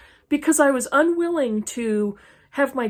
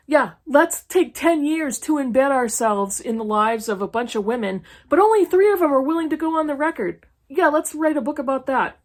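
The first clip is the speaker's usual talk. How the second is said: mocking, partly raised and quick; sarcastic mock pitch; 3 semitones higher than usual. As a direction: sneer at the idea as if pitching it. Mocking the author's book pitch.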